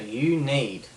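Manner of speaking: "you need" stressed and set apart; deliberate, weighted "you need"; emphasized power words. Shown as a demonstration. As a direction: lean firmly on "you need". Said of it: "words that I'm putting emphasis on".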